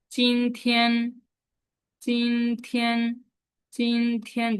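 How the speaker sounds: চিনথিয়ান held level and slow on both syllables; first tone. Shown as a demonstration. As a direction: keep চিনথিয়ান flat and steady. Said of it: "দুইটা first number". (চিনথিয়ান সমান উঁচু প্রথম টোনে)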